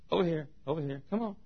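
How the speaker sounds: soft, slightly high beckoning; coaxing. Acted. God guiding the fish over, coaxing. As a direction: gently lure it over.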